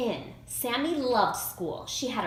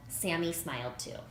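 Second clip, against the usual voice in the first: ordinary delivery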